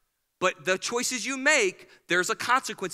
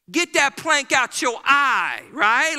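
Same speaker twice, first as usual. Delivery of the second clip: loud, slow mock comeback; mock retort; 5 dB louder, slower than usual. Churchgoer shouting back at the preacher.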